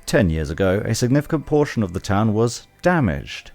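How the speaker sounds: informative tour guide read. Pretend. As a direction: narrate it like a museum guide. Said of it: "my tour guide voice".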